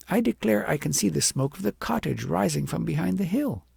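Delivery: put-on a sneering little girl, opening high; mild scorn from a proud child; disdainful girl. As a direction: look down your nose at it. Agnes disowns her home.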